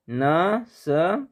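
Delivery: नस्तालिक stretched out slowly, syllable by syllable; slow drawn-out answer. Shown as a demonstration. Teacher spelling out the script name slowly for students. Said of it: "किसमें?".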